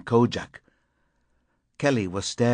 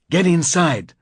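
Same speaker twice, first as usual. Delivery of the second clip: a sharp high shout; 7 semitones higher, 5 dB louder than usual. Acted. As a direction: bark the order to get inside. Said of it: "I shouted".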